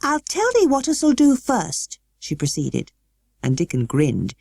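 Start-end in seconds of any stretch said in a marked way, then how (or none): 0.0-2.0 put-on high girl's voice, careful Yorkshire; slow, much higher learner's Yorkshire; Yorkshire attempt. A narrator's reading. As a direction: twist the tongue into Yorkshire. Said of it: "tried to twist her tongue into speaking Yorkshire".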